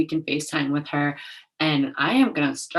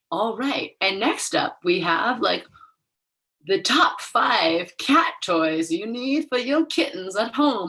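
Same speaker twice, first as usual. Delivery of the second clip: lightly voiced chipper newscaster, higher; mock news anchor; 4 semitones higher than usual. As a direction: breezily switch to a fluff segment. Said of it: "And then they're just like".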